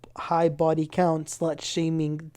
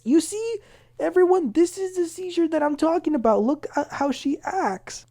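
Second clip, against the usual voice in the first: high, loud, showy announcement to the room; mocking Brittany; 12 semitones higher, 5 dB louder than usual. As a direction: present it like a smug exhibit. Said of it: "Brittany say, says".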